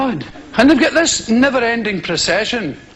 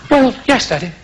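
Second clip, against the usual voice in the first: lightly voiced prim English son; Nigel Junior. Son admitting that is all, mildly affected voice. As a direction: answer as the preacher's dutiful boy. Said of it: "my son, Nigel Junior".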